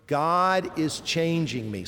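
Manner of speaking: slow, each word set apart; leading recitation. Shown as a demonstration. Preacher asks congregation to say four words, slow recitation. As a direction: say it slowly for a group to repeat. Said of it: "Can you say those four words?".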